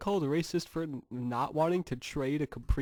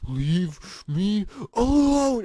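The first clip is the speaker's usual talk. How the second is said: mock yell; 5 semitones higher, 7 dB louder, much slower than usual. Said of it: "He goes".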